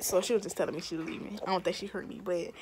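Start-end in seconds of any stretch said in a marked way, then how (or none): 1.4-2.5 smacking gum while talking; chewing gum. Real, not acted. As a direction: talk through loud gum chewing. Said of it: "I just realized I was smacking this gum kinda hard".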